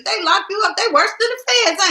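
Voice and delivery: laughing. Real, not acted. Laughing at Facebook jail.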